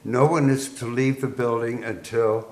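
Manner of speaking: measured, lightly voiced PA announcement; PA announcer retold. Army PA warning troops of an earthquake, mock-official announcement. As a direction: announce it formally to the troops, without raising the voice. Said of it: "P A system, it said".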